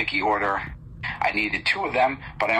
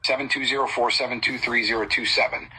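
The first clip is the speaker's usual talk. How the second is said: dictating slowly. Acted. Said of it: "I'll say them slower".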